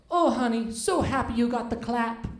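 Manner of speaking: lightly voiced proud wife with a hint of accent; mock-sweet spousal congratulations; imitated wife. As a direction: gush a little, as an imitated wife. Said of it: "and she goes".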